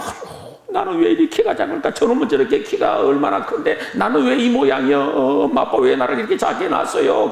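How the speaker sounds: sighing, whiny self-pitying grumble; mock grumbling. Short person moaning about their height, mock grumbling. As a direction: grumble to yourself, starting on a hushed sigh. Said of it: "투덜거리고 궁시렁거리고 계속 그래".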